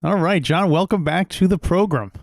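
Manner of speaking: put-on old-time mid-Atlantic radio accent; like a twenties film announcer, mid-Atlantic accent. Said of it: "your pronunciation of program".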